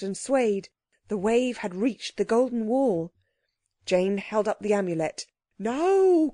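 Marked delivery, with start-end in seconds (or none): 5.6-6.3 high, loud creature command; urgent cry. A narrator's reading. Creature signals the girl to act, crying out. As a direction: cry the word out sharply high. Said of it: "cried the Psammead".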